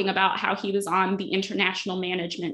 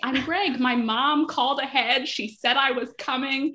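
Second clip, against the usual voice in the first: high, nervous eager voice, pitched way up; awkward cousin Greg; 6 semitones higher, slower than usual. Retold or imitated. Podcaster imitating Greg flustering to the bodyguard in a high nervous voice. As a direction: stammer it out like a flustered nobody. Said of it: "And so Greg is like".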